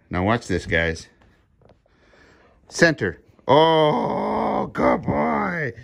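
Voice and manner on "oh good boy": high squeaky dog praise; excited praise. Real, not acted. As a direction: gush over the dog in a high voice. Excited praise after trick.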